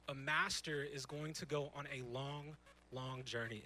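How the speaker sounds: "long, long journey" with the weight on "long"; stress on long. Shown as a demonstration. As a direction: lean on "long, long" and stretch it. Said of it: "emphasis on long".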